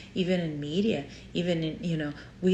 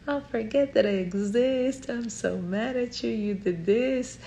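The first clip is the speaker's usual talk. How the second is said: angry aunt; 5 semitones higher than usual. Retold or imitated. Aunt snapping at her niece about something small, mock anger. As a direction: play the upset aunt scolding her niece. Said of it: "she's like".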